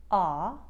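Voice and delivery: "ah" opened slightly from aw, Brooklyn style; loud "ah", halfway between aw and a wide ah; slightly wider vowel. Shown as a demonstration. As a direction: Bronx "ah", only slightly wide. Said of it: "only make it slightly wider".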